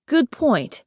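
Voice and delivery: newly convinced agreement; dawning realisation. A narrator's reading. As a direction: concede it as if it's news to you. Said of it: "as though he hadn't thought of that before".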